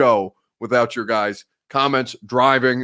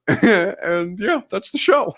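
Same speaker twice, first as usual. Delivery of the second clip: high-pitched, talking through laughter; laughing; 6 semitones higher, much slower than usual. Real, not acted. Host cracking up at his own show idea, laughing. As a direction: let the laugh lift your voice right up.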